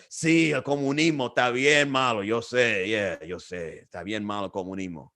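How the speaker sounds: nod along like you know what she means, trailing off; feigned agreement. Retold or imitated. Agreeing with the old Cuban lady to dodge an argument, mumbling. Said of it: "started acting like I knew what she was talking about".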